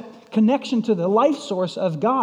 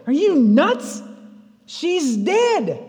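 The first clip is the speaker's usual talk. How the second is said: scoffing mourners; 6 semitones higher, slower than usual. Retold or imitated. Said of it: "They cracked up laughing".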